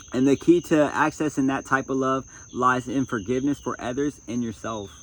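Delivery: projected reading from a self-help book; book reading aloud. Acted. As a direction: read it out firmly to an audience.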